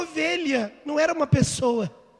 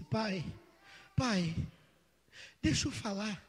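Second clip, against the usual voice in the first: put-on child crying; 5 semitones lower, 13 dB quieter than usual. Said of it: "começou a chorar".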